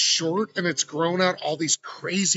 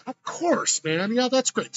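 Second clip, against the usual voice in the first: friendly local; 7 semitones higher, slower than usual. Retold or imitated. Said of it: "And they were like".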